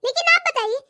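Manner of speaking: a lightly voiced, sarcastic young wife; mock her words back at her; sarcastic daughter-in-law. Daughter-in-law arguing sarcastically with her sister-in-law.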